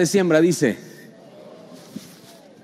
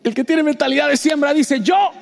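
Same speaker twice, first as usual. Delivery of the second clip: high call for the crowd to shout back; preacher call-and-response; 10 semitones higher than usual. Acted. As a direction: lead the answer.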